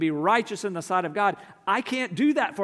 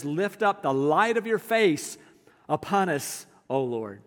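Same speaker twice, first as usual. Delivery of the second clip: slow prayerful reading. Shown as a demonstration. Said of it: "He described it beautifully".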